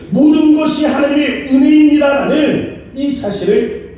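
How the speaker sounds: high, loud preaching build. Acted. The pastor preaching human weakness at full force to the church. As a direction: drive the truth home to the congregation. Sermon climax.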